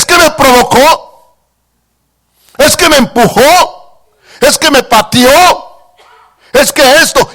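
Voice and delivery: mock whining believer making excuses; whiny excuses. Preacher mocking believers' excuses, whiny. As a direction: whine it like a caught child.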